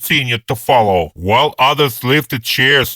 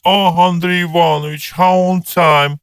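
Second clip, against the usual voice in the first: put-on lightly high, chirping old lady; twittering old woman; 5 semitones higher than usual. A narrator's reading. Gray-haired woman greeting the guest, high and twittering. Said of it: "the gray-haired woman twittered".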